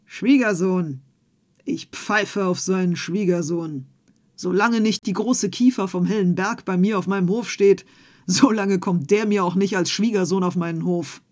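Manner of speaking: put-on an old farmer dismissing the suitor, loud and scornful; scornful outburst. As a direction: spit out the scorn.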